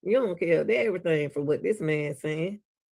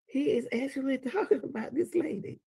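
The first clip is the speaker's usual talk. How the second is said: laughing; 4 semitones higher, 5 dB quieter than usual. Real, not acted. Laughing at the man's claims.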